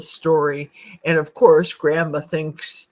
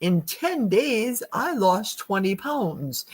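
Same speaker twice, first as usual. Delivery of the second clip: ad testimonial voice; 2 semitones higher, slower than usual. Retold or imitated. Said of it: "it's an image of Oprah".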